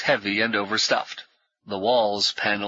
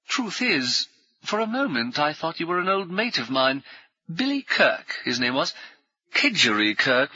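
brisk, higher, jovial military gent; hearty ex-officer; 5 semitones higher than usual. Acted. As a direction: bluff old soldier greeting new friends. Brummond reminisces.

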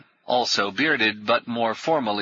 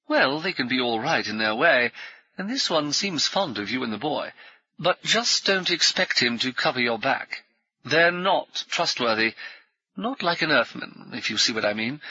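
hearty ex-officer; 3 semitones higher than usual. Acted. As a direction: bluff old soldier greeting new friends. Brummond warns Paul.

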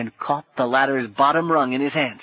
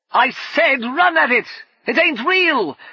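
loud, high, slow insistent yell; frustrated shout; 6 dB louder, slower than usual. Acted. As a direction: bark it at someone who won't move. Brumman urging frozen Paul.

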